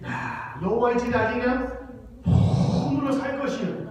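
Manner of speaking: loud, emphatic Chungcheong dialect line. Shown as a demonstration. Pastor repeats the punchline for the congregation in a loud Chungcheong dialect. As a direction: toss it out with folksy Chungcheong emphasis. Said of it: "이게 아니라".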